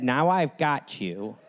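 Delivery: slow, low, deadpan gloat; flat deadpan quote. Retold or imitated. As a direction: say it dry and unimpressed. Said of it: "He said".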